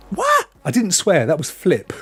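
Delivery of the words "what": surprised. Real, not acted. Shocked reaction to on-screen chat.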